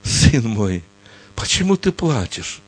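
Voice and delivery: gentle, soothing voice of a loving father; tender fatherly voice. Acted. God answers his frightened son, tender and soothing. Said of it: "такой ласковый голос".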